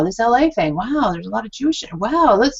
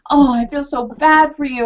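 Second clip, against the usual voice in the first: mock pity; 5 semitones higher, 3 dB louder than usual. Mock sympathetic response.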